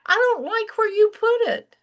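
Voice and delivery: high, whiny complaint; imitating a grumpy grown son; cranky son. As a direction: whine like a sulky son. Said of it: "He said".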